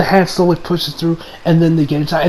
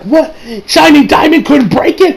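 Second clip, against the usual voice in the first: startled disbelief; 7 semitones higher than usual. Retold or imitated. Josuke surprised the bomb survives.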